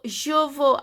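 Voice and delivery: "je veux" said as "zho vo"; "veux" ending on the vowel; silent final X. Shown as a demonstration. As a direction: say "je veux" without the X. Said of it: "X is not pronounced".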